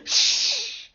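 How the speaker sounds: high whispered shush; hushing shh. A narrator's reading. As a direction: hush the others quickly. Goldilocks shushing.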